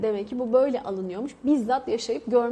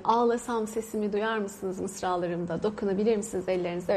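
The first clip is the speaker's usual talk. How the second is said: poem recital; 3 semitones lower, 3 dB quieter than usual. Retold or imitated. Quoting Orhan Veli's poem to the audience, soft recital. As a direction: recite the verse gently, slowing down. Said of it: "Orhan Veli'nin şiirini".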